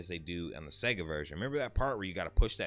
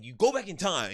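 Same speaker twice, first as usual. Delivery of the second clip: higher, louder, dead-serious insistence; earnest friend; 9 semitones higher, 7 dB louder than usual. Retold or imitated. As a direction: imitate the buddy swearing it's true. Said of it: "He was so serious".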